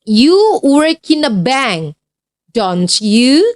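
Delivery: slow statement, rising tag; don't you? rising at the end; example read aloud. Shown as a demonstration. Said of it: "contoh kalimat yang kedua".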